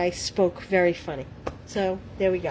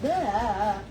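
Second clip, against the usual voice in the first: tongue-tied blah. Real, not acted. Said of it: "I can speak. Can you speak?".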